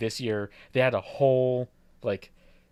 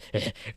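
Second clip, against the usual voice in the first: creepy laugh; 3 dB quieter than usual. Shown as a demonstration. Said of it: "a creepy, like, laugh".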